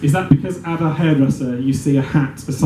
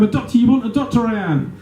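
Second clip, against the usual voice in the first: raised-pitch bleat, dropping at the end; bleating shout; 7 semitones higher than usual. Acted. Man shouts from the back of the plane, mock bleating. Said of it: "you scream and you shout and you bleat like a lamb".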